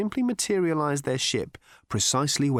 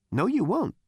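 cocky Zaphod voice; 9 semitones higher than usual. A narrator's reading. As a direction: taunt the robot, full of swagger.

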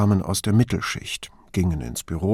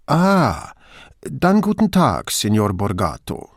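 friendly Venetian. Acted. Brunetti greets Borgato on the phone, friendly Venetian dialect. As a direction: switch warmly into Veneziano. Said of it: "schaltete Brunetti freundlich auf Veneziano um".

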